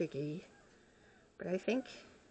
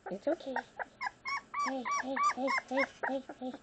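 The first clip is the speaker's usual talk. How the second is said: soothing a pet; 6 semitones higher, faster than usual. Real, not acted. Calming the nervous pet.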